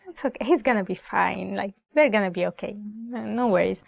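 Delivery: lightly voiced unbothered dad; easygoing dad. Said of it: "the dad is like".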